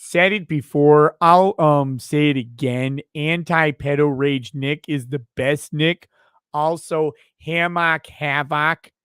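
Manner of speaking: lightly put-on impression voice, emphatic delivery; slightly altered voice for a requested impression; Richard. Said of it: "Please read in Richard's voice".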